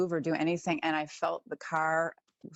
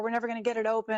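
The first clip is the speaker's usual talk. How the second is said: gasp, then much higher panicked husband; freaking out; 6 semitones higher, much faster than usual. Retold or imitated. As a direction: play the husband panicking by the locked car. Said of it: "He's, like, freaking out".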